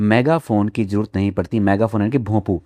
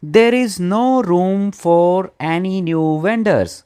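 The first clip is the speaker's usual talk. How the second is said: high, loud call to a crowd; loud announcement; 8 semitones higher, much slower than usual. Retold or imitated. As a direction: project it like addressing a crowd without a mic. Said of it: "तो उसने बहुत ज़ोर से कहा". (ऊँची, ज़ोरदार आवाज़ में घोषणा)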